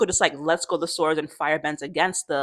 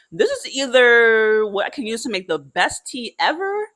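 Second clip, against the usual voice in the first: retold musing uncle; 5 semitones higher, 3 dB louder than usual. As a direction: lightly voice an uncle weighing a gamble. Iroh weighing up a risky berry.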